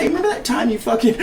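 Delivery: can't keep a straight face reading it out; giggling mock greeting to an old classmate; laughing mock message. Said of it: "I look 'em up and be like".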